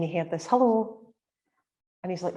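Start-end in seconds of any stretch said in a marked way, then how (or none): 0.5-1.1 lightly imitated woman's hello, slightly high; a hint of a woman's voice calling; female voice. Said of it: "he heard her voice again".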